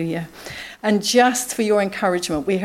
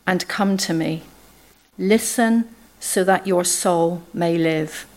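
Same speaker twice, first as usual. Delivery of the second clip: scripture reading. Acted. Reading Isaiah fifty-five aloud.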